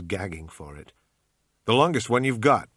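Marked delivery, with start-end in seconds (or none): 1.6-2.7 bad American accent. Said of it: "in my usual bad American accent".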